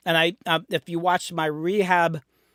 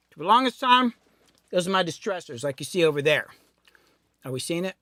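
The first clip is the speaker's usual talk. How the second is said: wolfing down food. Real, not acted. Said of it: "You're chewing".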